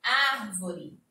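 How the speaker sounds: Árvore with an open á; correct pronunciation. Shown as a demonstration. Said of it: "Seria o agudo".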